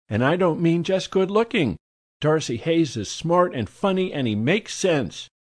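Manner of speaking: high, gushy society lady; effusive high society lady; gushing socialite. A narrator's reading. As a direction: swoon over the marvelous man.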